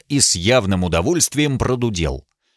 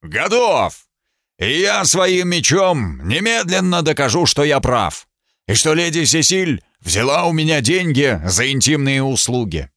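raised, a touch of a roar; thundering voice; 4 semitones higher than usual. Acted. Knight boasting he'll prove it by sword. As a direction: proclaim it boastfully. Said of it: "сказал громовым голосом".

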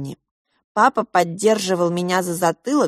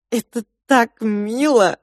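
sigh; 4 semitones higher, slower than usual. Acted. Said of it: "вздохнула я".

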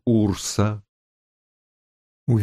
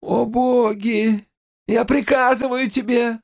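panicked cry; 12 semitones higher than usual. A narrator's reading. Terrified Chilon orders girl. (испуганный вскрик)

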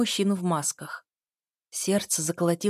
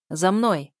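command; 5 dB louder than usual. Acted. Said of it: "скомандовал один из мужчин".

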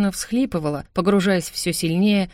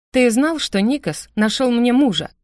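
higher, louder angry outburst; blurted out in anger; 6 semitones higher, 4 dB louder than usual. Acted. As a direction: burst out with the anger she can't hold. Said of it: "Выпалила я, не в силах больше сдерживать злость".

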